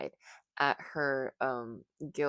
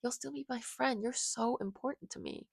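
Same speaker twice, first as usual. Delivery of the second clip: higher-pitched, gently reassuring; comforting; 8 semitones higher than usual. Acted. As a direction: soothe a sulking friend. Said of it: "chuckling and trying to comfort her".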